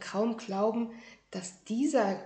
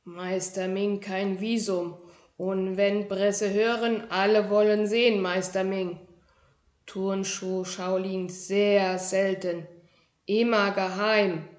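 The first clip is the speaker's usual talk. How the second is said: proud little kung fu master; 4 dB louder than usual. Acted. Tiny shoe-dwelling master introduces himself to a boy, proudly. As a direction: announce your grand title with dignity. Ming voiced.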